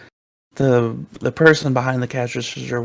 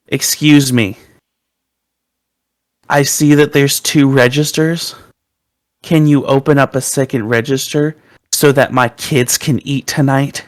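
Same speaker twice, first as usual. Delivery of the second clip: entitled customer; 5 dB louder than usual. Retold or imitated. Entitled customer demanding register.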